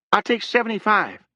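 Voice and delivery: called out. A narrator's reading. Young man bargaining after the leaving owner, called out. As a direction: call it out across the distance. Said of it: "called Harrogate".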